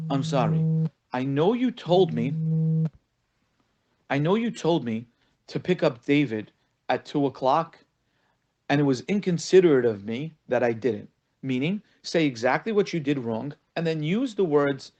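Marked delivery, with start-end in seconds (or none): 0.1-11.1 deliberate apology with weighty pauses; full, specific apology. Shown as a demonstration. Rabbi models an apology to a wife, spelled out deliberately. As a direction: own up to it, phrase by phrase. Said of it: "I want you to say".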